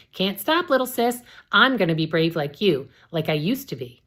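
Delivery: high, loud and giddy; manic giddiness. Acted. Sister calling down to her little sis, giddy. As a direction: taunt with reckless joy.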